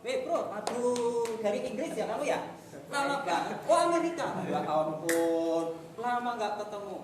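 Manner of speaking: high, stretched-out bro greeting; boys' slang greeting. Retold or imitated. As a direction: greet an old friend like a teenage boy. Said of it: "Ini pakai gayanya anak laki-laki ya".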